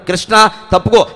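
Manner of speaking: retold angry threat. Arjuna threatening Dharmaraja.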